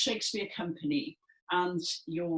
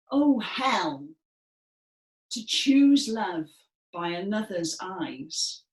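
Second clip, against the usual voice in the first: louder, drawn-out lament; despairing Hermia; 5 dB louder, slower than usual. Shown as a demonstration. Teacher voicing Hermia's complaint to the class, despairing. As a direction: wail it like a wronged daughter. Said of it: "our best Hermia voice".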